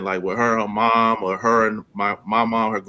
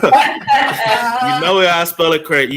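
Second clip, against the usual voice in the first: laughing through the words, higher and louder; 8 semitones higher, 6 dB louder, slower than usual. Real, not acted. S1 laughs about his daughter's odd name spelling. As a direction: crack up as you say it.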